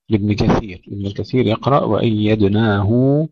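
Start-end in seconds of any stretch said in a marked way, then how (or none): 1.8-3.3 وأيدناه ending in a long "hu"; lengthened ha. Shown as a demonstration. Teacher shows Ibn Kathir's reading, lengthened ha. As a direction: hold the ه of وأيدناه for two beats. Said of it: "يعني بمد الهاء حركتين".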